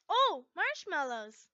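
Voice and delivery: high, loud, slow delighted squeal; excited drawn-out squeal. Acted. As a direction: gush over the treat. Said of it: "Levy squealed".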